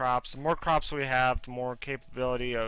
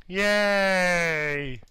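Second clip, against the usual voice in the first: excited yay; 5 semitones higher, 5 dB louder than usual. Real, not acted. Crafting unlocks the chest.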